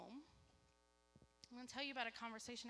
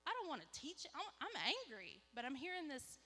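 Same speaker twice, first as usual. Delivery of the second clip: higher-pitched, mock-petulant objection; retold angry protest; 4 semitones higher, 4 dB louder than usual. Mom argues with God's nudge to teach, playfully angry. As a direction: argue back, half-seriously cross. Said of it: "I wanna be angry right now".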